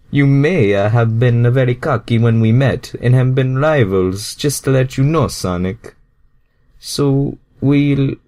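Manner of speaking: Mario speaking up to his rival. Acted. Mario's line, later restarted.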